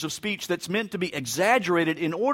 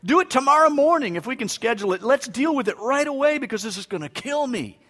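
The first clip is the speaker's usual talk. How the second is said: higher and louder, urgent and insistent; urgent plea; 8 semitones higher, 5 dB louder than usual. Retold or imitated. Patient urging the doctor to operate at once, insistent and loud. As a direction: beg the doctor to cut it out now. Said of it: "I'd say".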